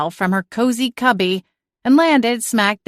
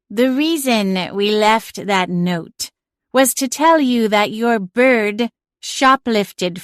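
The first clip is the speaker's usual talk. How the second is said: slow, grumpy talking-cat complaint; the offended cat states its case; indignant cat; 3 semitones higher, slower than usual. A narrator's reading. Celine accuses May.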